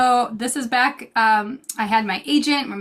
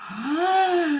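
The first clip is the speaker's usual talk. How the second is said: put-on baby's excited squeal; 6 semitones higher than usual. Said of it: "she looks at the screen and is like".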